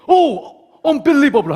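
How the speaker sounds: high, drawn-out astonished cry; acted wonder, pitch jumping up slowly; mock amazement. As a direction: gasp it out in hammed-up disbelief. Acts disciples seeing risen Jesus.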